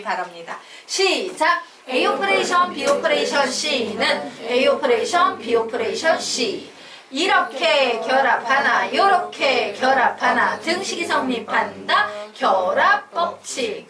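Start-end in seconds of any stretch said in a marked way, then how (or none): 1.9-6.7 louder, measured classroom chant; recitation drill. Shown as a demonstration. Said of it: "요거 세 번만 읽고 넘어가자". 7.1-13.9 slow, loud rhythmic chant; recitation drill. Shown as a demonstration. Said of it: "요거 세 번만 읽고 넘어가자".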